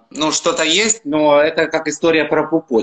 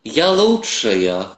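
fairy voice; 2 semitones lower, much slower than usual. Pretend. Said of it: "как прекрасная фея".

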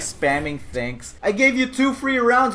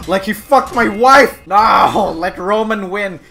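hammed-up angry yell; mock outrage; 7 dB louder, slower than usual. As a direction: shout as the wronged husband. Mock rage at gladiator.

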